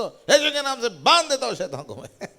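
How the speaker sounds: loud, high playful rebuke of the devil; mock rebuke. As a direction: scold Satan jokingly, breaking into laughter. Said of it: "मैं डांटू उसको".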